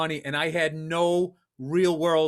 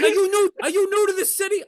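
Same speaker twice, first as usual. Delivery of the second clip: put-on high, loud question in heavy Asian accent; incredulous yell with thick Asian accent; 12 semitones higher, 6 dB louder than usual. Cabbie questioning green passenger, loud Asian accent. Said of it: "but a heavy accent".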